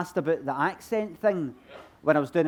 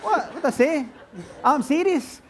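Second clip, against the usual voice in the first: mock offended; 9 semitones higher than usual. Real, not acted. Audience laughs at his plan.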